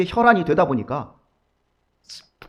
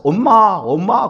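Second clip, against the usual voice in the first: put-on higher, louder childlike call; child calling mom; 3 semitones higher, 6 dB louder, much slower than usual. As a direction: call out like a clingy little child. (아이처럼 높게 엄마를 부르는 목소리)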